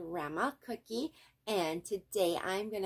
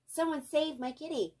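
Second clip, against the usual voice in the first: pleading; 8 semitones higher than usual. A narrator's reading. Sue Ellen pleading.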